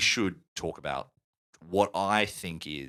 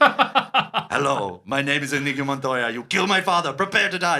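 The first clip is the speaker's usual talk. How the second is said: higher, louder rising battle cry; mounting vengeful chant; Inigo Montoya; 6 semitones higher, 6 dB louder than usual. Retold or imitated. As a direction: build it like a man psyching himself up. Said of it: "geeing himself up like fucking Popeye".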